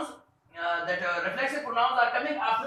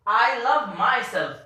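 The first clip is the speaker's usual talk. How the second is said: slow, deliberate, louder classroom read; slow example reading; 7 dB louder, slower than usual. Shown as a demonstration. Teacher reading an example sentence to the class, slow and emphatic. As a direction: read it out clearly for the students. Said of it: "I will read the, uh, these, you can say, reflexive pronouns first".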